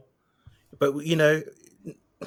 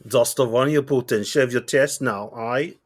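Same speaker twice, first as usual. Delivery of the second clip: lightly put-on Russian accent, slow command; a mock Russian order, half-hearted; hammed-up Russian accent, barely there; bad Russian accent. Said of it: "That's my worst Russian accent ever".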